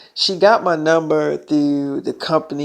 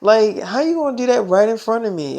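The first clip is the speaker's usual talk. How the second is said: higher-pitched jealous questioning; mock-indignant jealousy; jealous girlfriend; 4 semitones higher than usual. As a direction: imitate a jealous girlfriend objecting. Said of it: "that's when Storm Reed got jealous".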